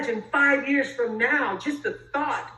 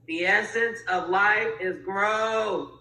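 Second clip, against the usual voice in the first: slow, deliberate mentor impersonation; Jim Rohn; 3 semitones lower, slower than usual. Acted. Speaker quoting an admired mentor on growth, slow impersonation. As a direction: draw the maxim out slowly like a seasoned speaker. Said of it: "That was my best Jim Rohn, uh, um, impersonation".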